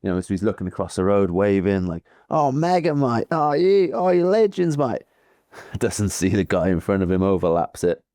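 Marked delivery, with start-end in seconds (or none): 2.3-5.0 much higher, gushing Aussie cheer; overjoyed rider greeting roadside fans; excited Plappy. Retold or imitated. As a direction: wave at fans and gush, pitched way up. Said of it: "full on Plappy style".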